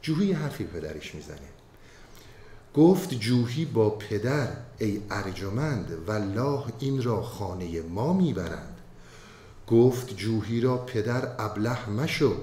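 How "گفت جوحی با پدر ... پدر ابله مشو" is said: poem recitation. Acted. Recites Masnavi verses.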